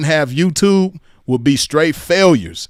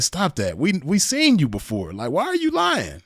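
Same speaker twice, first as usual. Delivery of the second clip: catty squeal; 3 semitones higher, 4 dB quieter than usual. Pretend. Mocking catty voice.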